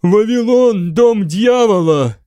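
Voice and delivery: high, loud wail.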